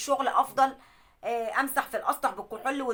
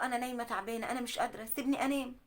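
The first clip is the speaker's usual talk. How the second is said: much softer, worn-out sick voice; weak, tired plea; 7 dB quieter than usual. Retold or imitated. Sick wife begging husband to let her sleep, soft and worn out. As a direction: barely get the words out, exhausted.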